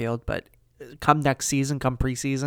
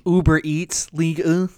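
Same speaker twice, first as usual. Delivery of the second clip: put-on French accent; 4 semitones higher, 4 dB louder than usual. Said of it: "extremely French pronunciations".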